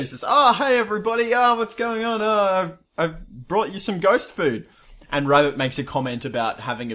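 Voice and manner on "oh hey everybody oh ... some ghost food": Sarah voice. Acted.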